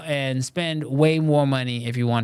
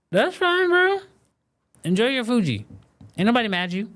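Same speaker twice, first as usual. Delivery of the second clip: high-pitched, jokey falsetto easing down; playful high-voiced "no judgment" aside; mock reassurance; 9 semitones higher than usual. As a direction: start in a squeaky-high voice, then come partway down. Mock reassurance to a Fuji owner.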